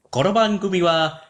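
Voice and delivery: high Japanese TV announcer; high, formal sponsor-card voice; sponsor announcement voice. Acted. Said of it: "I thought this was the voice".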